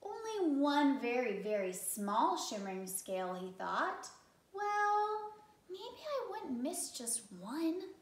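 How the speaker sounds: wavering. Acted. Rainbow fish wavers.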